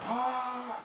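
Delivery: high, drawn-out mock "ahh"; crowd's excited gasp. Guest imitating fans seeing visiting American stars, high awed cry. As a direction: imitate a crowd gasping in awe, held high.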